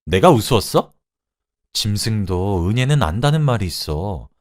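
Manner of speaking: angry shouting. Acted. Wife confronts husband over his affair, angry outburst. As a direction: let hurt indignation push the pitch up. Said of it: "라고 소리쳤습니다".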